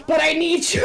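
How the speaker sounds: hammed-up crying shout; sob-yelled as the kid; mock sobbing yell. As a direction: wail it like a kid in mock despair. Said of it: "he's like".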